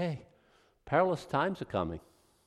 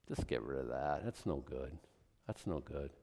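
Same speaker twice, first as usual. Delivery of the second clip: low quiet aside; 11 semitones lower, 13 dB quieter than usual. Real, not acted. Dismissing closet Christianity.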